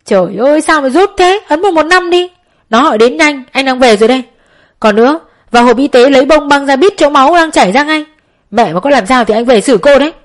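high, loud angry orders to his sister; furious scolding. A narrator's reading. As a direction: bark orders in a frantic rage. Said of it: "Mình nghiến răng chửi rủa". (quát mắng giận dữ, gấp gáp)

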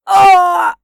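loud high howl of pain; pained scream. Acted. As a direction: scream as the ear is bitten. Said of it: "орёт Ольховский не своим голосом".

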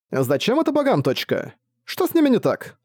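squeaky little companion, puzzled; Tiyo's voice. Acted. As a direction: Tiyo asking the orc about the gods, high and puzzled. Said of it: "спросил Тиё".

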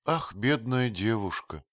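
high, loud exclamation of pity; pitying cry. A narrator's reading. Matcham pities the bride, crying out in sympathy. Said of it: "вскрикнул Джон".

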